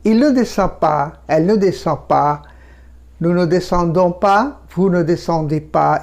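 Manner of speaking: slow, measured French drill with pauses; slow model recitation. Shown as a demonstration. French teacher models negative forms for learners, slowly. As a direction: say each negative form slowly and separately.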